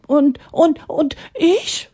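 high, hesitant little voice; the water asking. Acted. The water asking Atanga about itself, high and hesitant. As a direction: stammer your turn in a small voice. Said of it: "fragte das Wasser".

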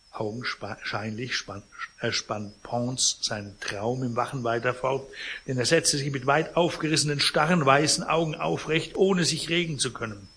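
measured read-aloud novel narration; story narration. A narrator's reading. Reader recounts the vultures in the sleeping man's flat, story narration. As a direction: read the tale expressively, phrase by phrase.

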